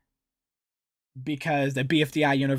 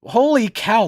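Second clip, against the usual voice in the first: surprised; 8 semitones higher, 9 dB louder than usual. Real, not acted. Reacts to Money getting mad.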